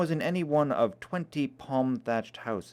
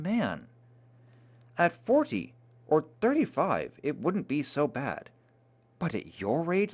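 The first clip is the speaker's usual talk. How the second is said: earnest warning; 4 semitones higher than usual. Acted. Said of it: "with a sudden change of tone".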